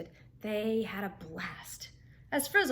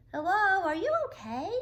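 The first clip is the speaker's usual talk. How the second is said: louder, higher call into the bushes; 9 semitones higher, 7 dB louder than usual. A narrator's reading. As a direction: call out to someone hidden. Calling toward whimpering behind tree.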